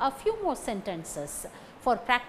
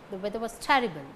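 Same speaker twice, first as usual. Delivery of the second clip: "weather" and "terrible" stressed, weak "was"; 2 semitones lower, much faster than usual. Shown as a demonstration. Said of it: "These words carry stress".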